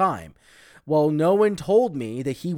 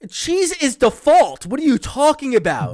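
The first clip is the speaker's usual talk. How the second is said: high, loud disbelief; outraged disbelief, pitched up; incredulous; 12 semitones higher, 8 dB louder than usual. Real, not acted. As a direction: cry out that it can't be true. Disbelief at missing cheese.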